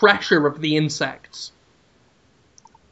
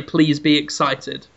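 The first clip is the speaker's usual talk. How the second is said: lightly voiced slow, low plea; a hint of an ominous low announcer; Reggie; 5 semitones lower than usual. Host voices an executive as the lights go down, slightly ominous low delivery. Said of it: "Reggie just say".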